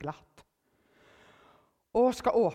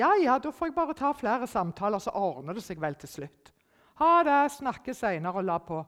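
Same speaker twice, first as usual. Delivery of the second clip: breezy reply; 3 semitones higher, 6 dB louder than usual. Retold or imitated. Her breezy reply quoted.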